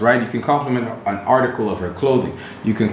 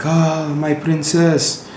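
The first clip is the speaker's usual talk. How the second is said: put-on high, slow fawning Arab accent; put-on Arab accent, drawn out and high; 8 semitones higher than usual. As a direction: gush like a servile Arab suitor, pitched high. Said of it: "this is my Arab accent".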